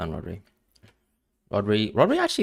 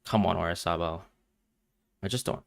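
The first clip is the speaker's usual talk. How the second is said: normal talking voice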